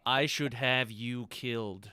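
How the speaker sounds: slow, measured threat; exasperated threat. Acted. Irritated questioner threatens the useless witness, slow and exasperated. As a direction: say it slowly, fed up and menacing.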